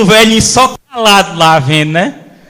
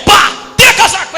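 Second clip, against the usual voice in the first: fight shout; 11 semitones higher than usual. Retold or imitated. Fight with sound effects.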